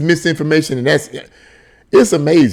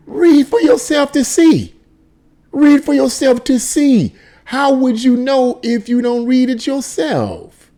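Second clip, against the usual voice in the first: high, drawn-out sarcastic plea; slow, high-pitched incredulous appeal; exasperated urging; 8 semitones higher, slower than usual. Real, not acted. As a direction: stretch each word out, pitched well up.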